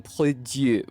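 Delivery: put-on lightly French-accented pronunciation. Streamer recalling how they read it, French accent. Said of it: "with a French accent".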